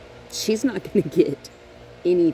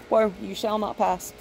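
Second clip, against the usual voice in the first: Gandalf; 3 semitones higher than usual. Pretend. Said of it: "I'm like Gandalf".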